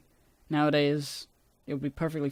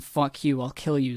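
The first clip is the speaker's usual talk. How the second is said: deadpan. Shown as a demonstration.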